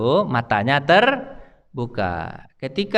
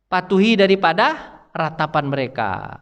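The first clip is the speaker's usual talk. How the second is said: slow, firm voice of the angel; the angel chooses God's command; resolute angel; 6 semitones higher, slower than usual. Retold or imitated. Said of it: "perkataannya kepada Jibril dan Mikail". (malaikat yang teguh, lambat dan tegas)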